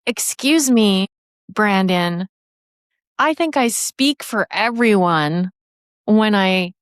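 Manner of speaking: drawn-out, deliberate "excuse me" of a mock objector; politely pointed interruption, slightly put on; retold complaining trainee. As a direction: lightly imitate a woman speaking up in class. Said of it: "puts up her hand and she goes".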